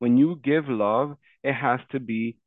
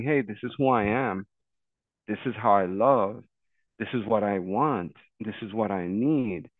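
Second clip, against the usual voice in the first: measured, lower-key statements with pauses between; calm self-declaration; 3 semitones lower than usual. Acted. Friend models telling a partner one's needs, calm. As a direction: state it gently and sincerely.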